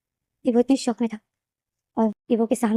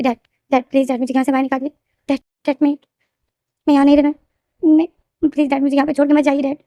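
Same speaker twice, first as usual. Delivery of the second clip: higher, louder retold begging to dad; desperate pleading; 4 semitones higher, 3 dB louder than usual. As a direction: plead with him not to leave you. Son calls out to leaving dad.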